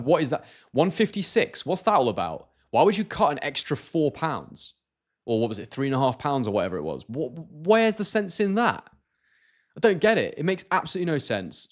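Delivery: real bafflement, pitch jumping up on the key questions; baffled disbelief. Real, not acted. Streamer questions a fighter's odd weight to viewers, baffled.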